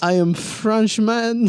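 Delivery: slow mock Franco-Russian accent; Russian-sounding French accent. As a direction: mimic a bad French accent sliding into Russian. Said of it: "It's always Russian".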